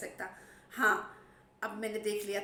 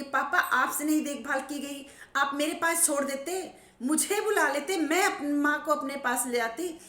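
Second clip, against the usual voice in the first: tearful pleading; 4 semitones higher, 5 dB louder than usual. Retold or imitated. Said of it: "दोनों बुरी तरह से रो रहे हैं".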